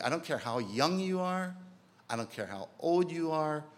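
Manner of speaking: rising fervent sermon call; emphatic preaching. Real, not acted. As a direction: push it out to the whole room. Preacher urging all ages.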